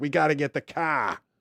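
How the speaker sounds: fed-up, angry Boston accent. Retelling how a Boston person talks when cold and annoyed: imitating an angry Boston accent. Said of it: "it's cold and they're pissed".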